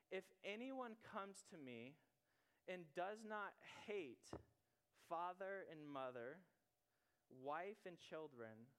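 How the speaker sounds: slow, measured Bible reading with long pauses; solemn reading of Luke to the congregation; scripture reading. Acted. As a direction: read each phrase like holy words, unhurried.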